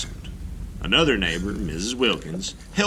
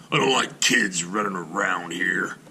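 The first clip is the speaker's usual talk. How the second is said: grumbling grouch. Acted. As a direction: grumble it like a cranky old man. Klug refuses Joan.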